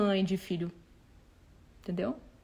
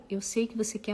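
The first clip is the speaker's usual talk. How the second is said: usual speaking voice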